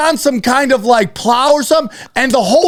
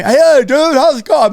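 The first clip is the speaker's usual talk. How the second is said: fake voice; 4 semitones higher than usual. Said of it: "I make up a fake voice".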